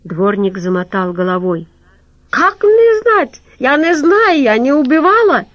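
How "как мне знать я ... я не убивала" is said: pleading in fright, pitched high; frightened high voice. Acted. Frightened janitor denies killing.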